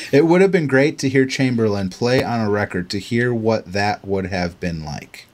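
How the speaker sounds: "It would have been great to hear Chamberlain" redone with a laugh in the voice; laughing reread. Real, not acted. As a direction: push through it, still chuckling. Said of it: "hear me read that sentence correctly".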